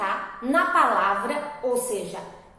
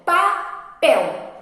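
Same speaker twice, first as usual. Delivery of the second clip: "papel" split, PEL louder; stress on last syllable; 4 semitones higher, 5 dB louder than usual. Shown as a demonstration. Teacher showing pupils the strong syllable in a little word, stressed last syllable. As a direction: punch the end of "papel".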